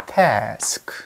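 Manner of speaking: task whispered as one syllable, no vowel after s. Shown as a demonstration. Teacher whispering task as one syllable. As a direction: breathe task short and single. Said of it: "한 음절".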